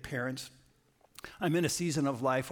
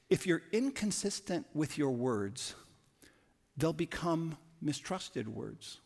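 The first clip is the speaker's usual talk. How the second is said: slow emphatic axiom; 2 semitones higher, slower than usual. Shown as a demonstration. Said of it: "axiom said twice".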